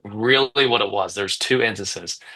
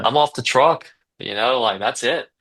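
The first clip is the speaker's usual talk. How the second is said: higher-pitched, triumphant lift; retold elation; 4 semitones higher than usual. Owner retelling his first day off the truck, elated. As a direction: replay the excitement of finally making it.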